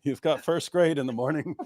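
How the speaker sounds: a hint of a caught-out husband making excuses; lightly voiced flustered Daniel. Daniel excuses himself and sends his child bride to bed, mock-innocent. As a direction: stall with drawn-out, halting excuses, lightly acted.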